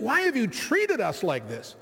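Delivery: a mildly accusing mother, pressing on treated; a light reproach aimed at her son; understated accusation in a mother's voice. Retold or imitated. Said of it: "Was it an accusing".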